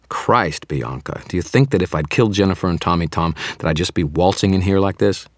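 can't believe she'd think that; exasperated. Acted. Exasperated argument with vampire.

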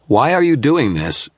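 high, loud, slow demand; angry demand. Acted. Wizard demands why the sorcerer does this, angry. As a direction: push hard for an answer. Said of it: "I demanded".

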